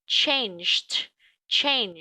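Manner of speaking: changed ending in a T sound. Shown as a demonstration. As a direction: end changed with a crisp T. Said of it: "E D đứng sau âm này mình sẽ đọc là chữ T". (đọc changed với đuôi ed là T)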